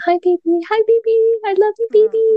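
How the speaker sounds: high, tender crying voice; tearful greeting. Retold or imitated. Mother greeting her newborn daughter through tears. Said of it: "we just started bawling".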